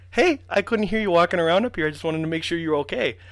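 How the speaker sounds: high-pitched imitated old lady; grandma. Grandma checks on her grandson upstairs, imitated high voice. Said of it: "out from the wall pops my grandma".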